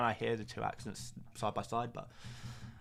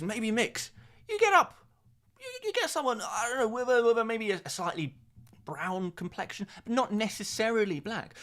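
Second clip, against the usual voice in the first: mock lecture; 4 dB louder than usual. Mock-lecturing education bomb.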